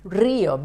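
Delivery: RÍO stressed on the first syllable, RÍ-o. Shown as a demonstration. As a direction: lean on the Í of RÍO. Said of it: "Why do we stress the letter I?".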